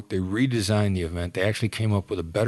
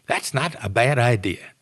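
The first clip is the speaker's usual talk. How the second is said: higher, louder musing voice; imitated hostage taker; 4 semitones higher, 3 dB louder than usual. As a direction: toy with the idea out loud. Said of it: "the person in the house would go like".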